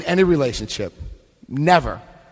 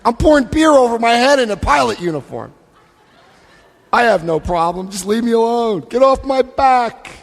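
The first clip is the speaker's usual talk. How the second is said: put-on defiant drunk; 3 semitones higher than usual. Drunk pilot denying his problem, mock defiant. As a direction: play the stubborn drunk in denial. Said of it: "And then I say".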